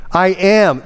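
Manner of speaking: high declaration, "am" punched long; stress on AM. Shown as a demonstration. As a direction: lean hard on "am" in "I am". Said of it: "It's to place emphasis".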